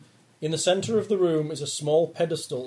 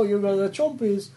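creature voice; 6 semitones higher than usual. Acted. GM voicing creature.

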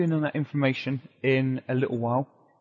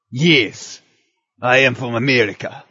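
mock Russian accent; 4 semitones lower, 5 dB louder, much slower than usual. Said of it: "a gentleman walking into the White House".

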